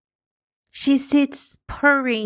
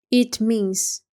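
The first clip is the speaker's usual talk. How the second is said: ordinary delivery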